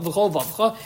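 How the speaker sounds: b'chol vavcha said with the middle syllable of vavecha swallowed; slurred word. Shown as a demonstration. Teacher shows a messed-up slurred reading, swallowed syllable. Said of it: "a messed up b'chol vavecha".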